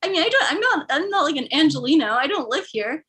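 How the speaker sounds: high, stumbling mock defence; flustered protest. Passenger defending herself to the driver, flustered protest. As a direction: plead your case, tripping over the start.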